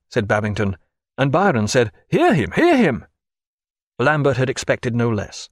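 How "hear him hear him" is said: high, loud cheer; cheering midshipman. Acted. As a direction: cheer the captain on. Byron cheering.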